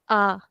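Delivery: A said as an open "ah"; open default A. Shown as a demonstration. Teacher asking students to differentiate, open ah for A. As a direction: open the mouth for a long A, "ah". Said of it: "the default sound of this letter".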